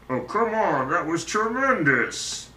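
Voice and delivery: lightly voiced SpongeBob; a hint of SpongeBob. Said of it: "that voice is frickin' sweet".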